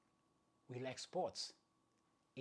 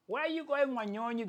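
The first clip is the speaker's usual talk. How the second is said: high, loud teasing call from the chasing runners; mocking rivals' taunt; 11 semitones higher, 7 dB louder than usual. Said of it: "They were like".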